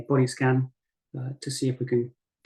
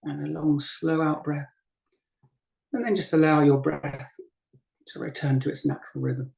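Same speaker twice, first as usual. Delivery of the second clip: unhurried guiding voice with long pauses; guided meditation. Acted. Teacher guiding a group to breathe and settle, guided meditation. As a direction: ease them gently through each breath, leaving space between phrases. Leads breathing and body practice.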